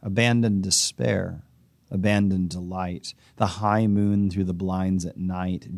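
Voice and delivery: measured, unhurried poetry recital; poem reading. Acted. Reads the poem aloud.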